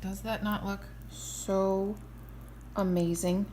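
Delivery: slow, drawn-out and loud; excited. Real, not acted. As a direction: show it off with delight. Showing off her finished congee.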